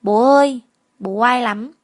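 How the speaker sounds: put-on calling out loudly, proud child; boy loudly boasting about his dad to the school; loud child's call. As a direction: shout it out proudly to the crowd. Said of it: "Bin nói to".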